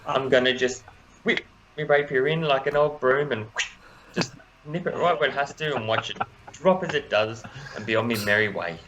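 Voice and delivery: put-on merry English accent, narrating his skip. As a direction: whimsical halfling in an English accent. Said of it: "for inspiration for that accent".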